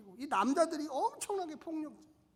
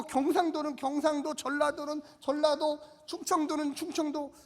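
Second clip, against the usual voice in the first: ordinary talk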